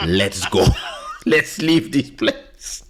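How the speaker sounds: retold plea, breaking into laughs; laughing urgency. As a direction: urge them out through laughter. Urgent retold exit while laughing.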